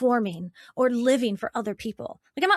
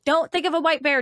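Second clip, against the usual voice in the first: louder and higher on "don't think of a white bear"; emphatic repeat; 4 semitones higher, 5 dB louder than usual. Shown as a demonstration. Repeating the command to Daniel, louder and emphatic. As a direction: press the warning harder. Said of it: "if I tell you right now".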